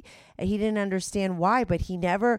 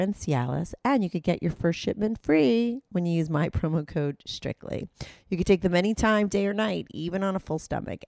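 upbeat, quick ad-read voice; sponsor ad read. Acted. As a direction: sell it like a radio spot. Host reads sponsor ad.

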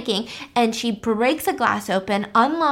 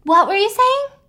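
dazed friend; 9 semitones higher, 5 dB louder than usual. Retold or imitated. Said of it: "And she's like".

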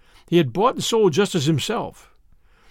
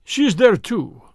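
higher-pitched, grudging Russian reply; sullen; 6 semitones higher, 3 dB louder, slower than usual. A narrator's reading. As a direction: admit it with a touch of sulkiness, dropping off. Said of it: "said the Russian sullenly".

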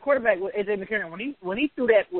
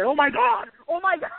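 imitating announcer; 6 semitones higher than usual. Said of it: "that damn country ass announcer said".

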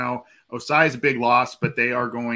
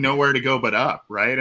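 dry sarcastic remark; 5 dB louder than usual. Real, not acted. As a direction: say it with heavy irony. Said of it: "sarcastically speaking".

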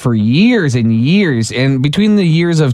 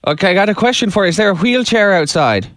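put-on a light Irish accent on a prank call; 2 semitones higher than usual. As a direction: play an Irish caller hunting for his brother-in-law. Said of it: "Jim is gonna do his best Irish accent".

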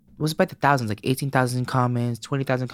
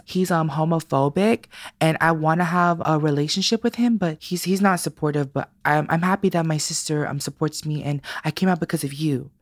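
put-on kid's voice; 6 semitones higher than usual. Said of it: "He was like".

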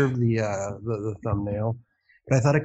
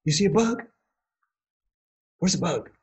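talking to a pet; 6 semitones higher than usual. Real, not acted. Asking cat about a bug.

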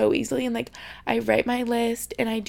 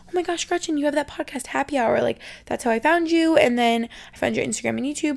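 imitated fan; 3 semitones higher than usual. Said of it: "two people in person that were like".

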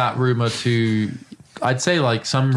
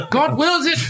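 crusader cry; 14 semitones higher, slower than usual. Pretend. Crusader battle cry joke.

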